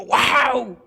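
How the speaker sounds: drawn-out wow of mild euphoria; acted euphoric cry. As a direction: act out an amazed exclamation. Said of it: "el eufórico gritó".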